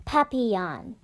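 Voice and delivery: papillon said the French way, pa-pee-YON; French pronunciation. Shown as a demonstration. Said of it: "You say it like this".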